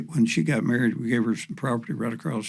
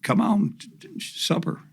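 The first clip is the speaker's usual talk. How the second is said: hollering; 8 semitones higher than usual. Retold or imitated. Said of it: "was hollering".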